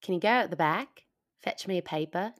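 put-on British-tinged go at an Australian accent; attempted Australian, sounds British. Canadian guest copying the sentence, Australian attempt turning British. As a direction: try Australian but land on British. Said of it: "It started British".

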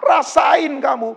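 gloating taunt. Retold or imitated. Gloating at pinched hand.

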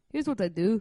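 playful Irish lilt on "Here's what I do"; Irish accent. Pretend. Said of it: "now we're Irish".

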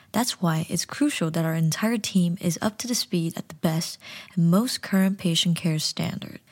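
corporate narration read; measured training voiceover; training video. Acted. Reads training video script.

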